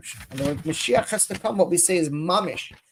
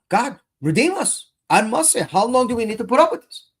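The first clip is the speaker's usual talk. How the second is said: pleading prayer; 5 semitones higher than usual. Acted. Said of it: "We have to scream out to God".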